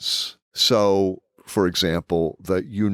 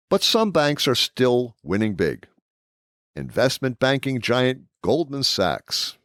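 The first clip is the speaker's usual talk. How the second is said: announcer voice; 3 semitones higher than usual. Shown as a demonstration. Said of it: "This is my announcer voice".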